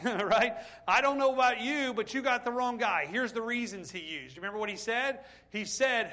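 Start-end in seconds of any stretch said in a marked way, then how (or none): 0.9-3.1 reluctant protest. Retold or imitated. Moses refusing God, loud and pleading. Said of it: "how Moses responded".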